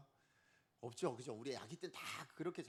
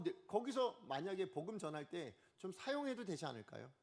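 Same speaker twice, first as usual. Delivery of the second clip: ordinary delivery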